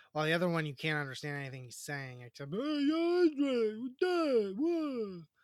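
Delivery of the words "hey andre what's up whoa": very slow, high, loud mumbled drawl, drawn out. Mocking how hard a lead actor is to understand, Sylvester Stallone impression. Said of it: "That's my Stallone impression".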